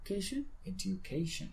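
"Education" slowly, with D then "you"; audible D plus "you". Shown as a demonstration. Teacher reminds a student of the D, slow "Education" with "d-you". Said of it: "La D no se te olvide".

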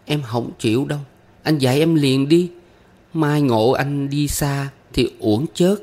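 put-on high, pouting child insistence; young pupil's petulant high pleading; sulky little girl. A narrator's reading. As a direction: refuse to wait, wheedling as a small girl. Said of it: "Con bé phụng phịu bắt tôi dạy".

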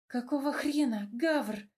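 plain reading voice

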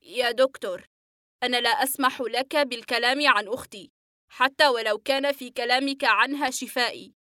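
patient firmly forbids the doctor; serious, different voice. Acted. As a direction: lay down the line sternly. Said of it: "وقال في صوت آخر".

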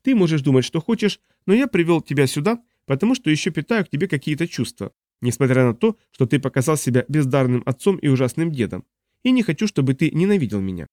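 put-on smug young man. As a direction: play the cocky grandson. Dun lectures his grandfather.

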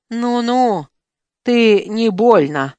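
slow, warning snap; a touch of a defensive snarl; snapping back. Acted. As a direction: growl a warning back at him. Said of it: "огрызнулся Джантай".

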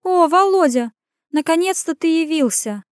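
high, offended grumble; sulky grumble. Acted. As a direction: grumble it, hurt. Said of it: "обиженно проворчала Ирен".

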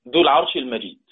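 المجيد ending with a silent d; stop on المجيد. Shown as a demonstration. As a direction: recite ذو العرش المجيد, stopping on a sukun. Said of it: "بنقف على كلمة المجيد".

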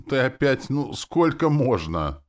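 high, loud exasperated moan; mental groan. A narrator's reading. Man exasperated with the demon in his head, groaning. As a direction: wail it in exasperation. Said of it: "Я мысленно простонал".

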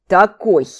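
"Такой" punched out loud and emphatic; with pointed expression. A narrator's reading. Орон refuses to explain to his teacher, "Такой" said pointedly loud. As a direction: land "Такой" hard, full of meaning. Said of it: "с выражением сказал Орон".

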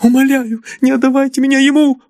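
very high, fast frantic plea; girl begging for her life; desperate pleading. Acted. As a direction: beg not to be handed over. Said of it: "взмолилась она".

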